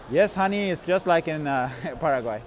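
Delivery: mock-casual teasing reply; jokingly. Answering his girlfriend over text, lightly joking. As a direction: tease her, playing it straight.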